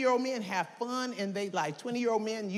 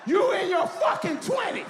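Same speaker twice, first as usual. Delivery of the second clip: insistent, raised repetition building to a shout; exasperated badgering; 5 semitones higher than usual. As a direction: hammer each repeat, higher on the last. Badgering a young audience member.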